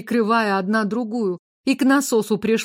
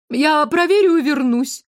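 eager; 6 semitones higher, 4 dB louder than usual. A narrator's reading. Widow promises and hurries off.

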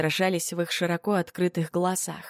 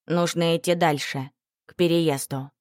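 louder. Acted. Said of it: "уже громче повторила".

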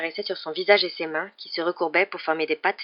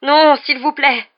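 slow, high, loud begging; drawn-out terrified pleading; moaned plea; 9 semitones higher, 11 dB louder, slower than usual. A narrator's reading. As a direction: wail for mercy, stretching the words. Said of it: "gémissait-il".

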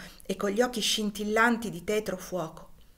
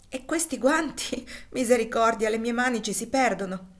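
higher, laughing exclamation over the gloves; amused; 4 semitones higher, 4 dB louder than usual. Acted. Wife laughs at big gloves. (la moglie ride dei guanti enormi, divertita)

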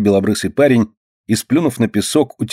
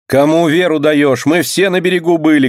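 women shouting; 7 semitones higher than usual. A narrator's reading. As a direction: shout him down together. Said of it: "кричат вокруг женщины".

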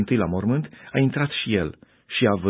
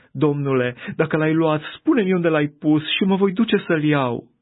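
rising higher and louder, pleading; desperate plea; 6 semitones higher, 3 dB louder than usual. A narrator's reading. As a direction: beg the gardener for the body. Maria îl roagă pe grădinar. (rugăminte disperată, tot mai sus și mai tare)

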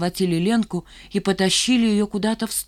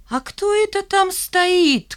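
high, slow taunting call; mocking kid shout; 12 semitones higher, 3 dB louder, slower than usual. A narrator's reading. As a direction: tease her from afar. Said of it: "крикнул Валька".

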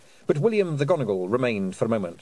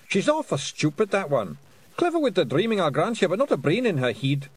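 indignant little Scottish warrior; Feegle voice; 9 semitones higher than usual. A narrator's reading. Rob Anybody speaking.

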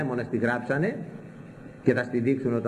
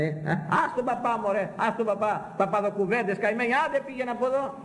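much higher, scornful brush-off of the priest; mocking dismissal; 10 semitones higher than usual. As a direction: wave the priest away like a nuisance. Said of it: "Λένε".

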